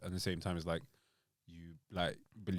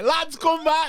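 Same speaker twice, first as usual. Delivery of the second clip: Putin voice; 7 dB louder, slower than usual. Retold or imitated. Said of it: "Putin's like".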